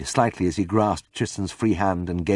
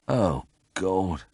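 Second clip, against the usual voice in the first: moaning; 5 dB quieter than usual. A narrator's reading. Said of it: "I moaned".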